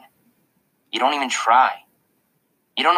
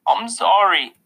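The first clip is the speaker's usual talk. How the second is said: higher, lightly tearful voice; tearful apology; 8 semitones higher, 4 dB louder, slower than usual. A narrator's reading. Boy to mom and principal, starting to cry. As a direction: apologize on the edge of tears. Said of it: "I started to cry".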